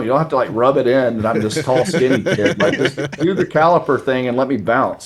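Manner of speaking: laughing through the words, a bit fast; amused, half-laughing rant. Real, not acted. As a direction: giggle it out as you vent. Laughing at his own retold thoughts.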